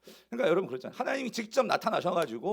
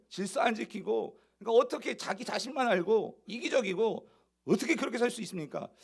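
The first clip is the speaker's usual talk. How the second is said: raised, pressing accusations; indignant questioning; 4 semitones higher than usual. Acted. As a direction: demand answers, piling up charges. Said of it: "지금 따지는 거예요".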